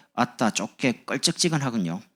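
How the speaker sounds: slow, drawn-out Jeolla phrasing; 전라도 사투리로 느리게; Jeolla dialect. Shown as a demonstration. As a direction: say it like a Jeolla grandmother. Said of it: "전라도 이런 게 있어요".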